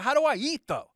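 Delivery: high, pleading question; desperate plea. Retold or imitated. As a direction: cry it out high and rising.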